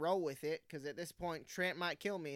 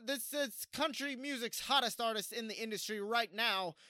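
usual speaking voice

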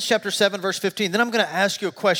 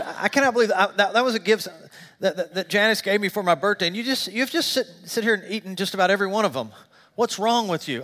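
higher, sputtering wife; retold indignation; 3 semitones higher than usual. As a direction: stammer through a mock-indignant scolding. Wife's retold scolding over the gift.

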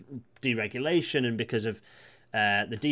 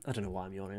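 said again softer, as a sheepish aside; quiet repeat; 4 semitones lower, 9 dB quieter, faster than usual. Real, not acted. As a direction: mumble it to yourself, half-apologising.

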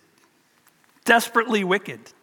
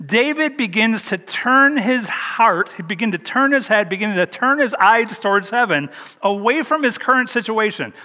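preaching; 3 semitones higher than usual. Acted. Pastor urging believers to look up, preaching. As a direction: lift the congregation step by step.

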